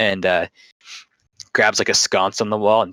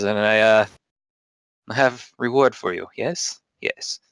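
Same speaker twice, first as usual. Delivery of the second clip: put-on Russian accent. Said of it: "we try accent now".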